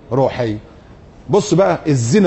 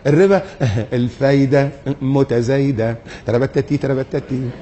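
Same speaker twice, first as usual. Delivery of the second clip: mock sly laughing; 2 semitones lower than usual. Mocking how interest is renamed.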